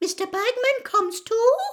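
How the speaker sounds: tiny squeaky squeal, very high-pitched. Winky reacts to Hermione mentioning Mr. Bagman, squeaking. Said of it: "squeaked Winkie".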